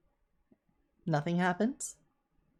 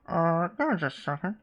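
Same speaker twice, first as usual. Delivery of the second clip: muffled voice from behind a door. Acted. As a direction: voice muffled through a wall. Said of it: "a muffled voice come from the other side".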